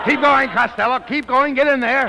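ringside cheering. Acted.

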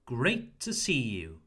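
"great" and "see" stressed, "to" short. Shown as a demonstration. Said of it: "we emphasize the words great and see".

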